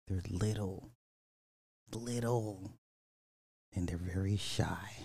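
hushed, dropping to a whisper on the last line; soft ASMR. Pretend. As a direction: murmur it like a secret about shy animals. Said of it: "Let's do a little A S M R".

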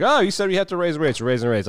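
hammed-up innocent president; mock Reagan. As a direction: play dumb in a high mock-innocent voice. Reagan voiced going along.

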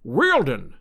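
understated burst of ecstasy; ecstatic cry. A narrator's reading. Challenger recognising the tracks, crying out in mild ecstasy. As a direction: exclaim it with a touch of rapture. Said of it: "cried Challenger in an ecstasy".

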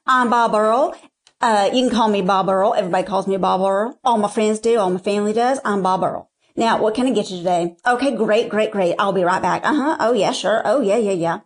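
lightly imitated Southern good old boy; a touch of good old boy accent; Bob Earl. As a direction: play a quirky Southern waiter rattling through his patter. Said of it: "like, this good old boy accent".

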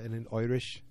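slipping into mock Irish; poorly imitated Irish accent; bad Irish accent. Shown as a demonstration. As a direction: let a fake Irish brogue creep in. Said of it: "Look, I'm doing it".

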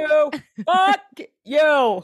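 very high, mock-combative Boston accent; hammed-up Bostonian cursing. Riffing with co-host on Cameron, exaggerated Boston accent. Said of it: "why he's from Boston".

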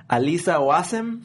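slow, exaggerated Hispanic accent on a name. Shown as a demonstration. Reading another viewer's name for laughs, Hispanic accent. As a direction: stretch the name in mock Hispanic style. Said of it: "say their name in a Hispanic accent".

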